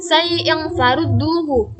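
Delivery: slow recitation of "Sai yang farudduhu", opening drawn out; "Sai yang farudduhu" recited slowly with a long "Sai"; two-beat lengthening. Shown as a demonstration. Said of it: "dibaca panjang dua harokat".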